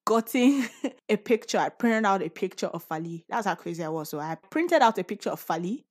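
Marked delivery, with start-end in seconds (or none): 4.1-5.8 rushing, fast; words tumbling out quickly; all in one breath. Real, not acted. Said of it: "I'm sorry I'm talking so fast".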